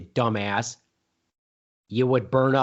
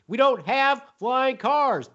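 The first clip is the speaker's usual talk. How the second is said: exasperated high repeat; 10 semitones higher, slower than usual. Acted.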